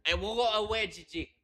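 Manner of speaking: high, loud whiny plea; pleading sing-song whine; mock whine. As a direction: whine it like a child begging.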